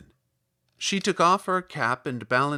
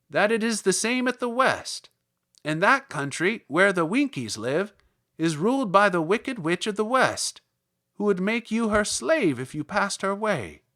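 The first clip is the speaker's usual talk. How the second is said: louder little Munchkin voice; 6 semitones higher, 4 dB louder than usual. Acted. Munchkin tells Dorothy about the shoes, louder. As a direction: speak up like an eager small villager.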